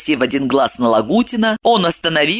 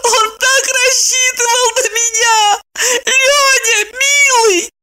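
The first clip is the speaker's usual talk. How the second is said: high keening woman's wail; slower than usual. A narrator's reading. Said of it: "завыла по бабье".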